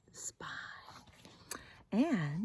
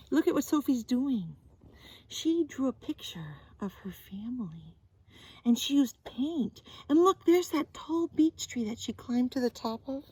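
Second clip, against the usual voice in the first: excited pointing out; 4 semitones higher, 4 dB louder than usual. Acted. Showing child the pictures.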